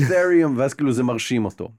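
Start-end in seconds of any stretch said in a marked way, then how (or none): 0.0-0.5 higher and louder, drawn out slowly; eager crypto talk. Retold or imitated. Player winning over the Bitcoin character, eager and slow. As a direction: sell yourself as a crypto fan, stretching it. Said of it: "אני אומר לו".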